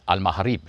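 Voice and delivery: Al Maghrib said the Arabic way; native pronunciation. Retold or imitated. Voiceover artist recalls his take for Morocco, Al Maghrib in Arabic pronunciation. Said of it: "Then for Morocco, I said".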